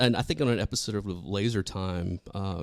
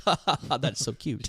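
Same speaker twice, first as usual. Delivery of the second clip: mock condescending amusement; 3 semitones higher, 4 dB quieter than usual. Podcaster reacting to an outdated salary boast, mock-patronizing. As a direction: fake ha-ha, then a softer coo.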